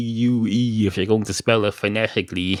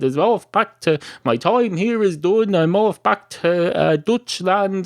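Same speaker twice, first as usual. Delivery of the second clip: higher-pitched, lightly voiced foreign lodger; imitating departing lodger; 9 semitones higher than usual. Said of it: "He said".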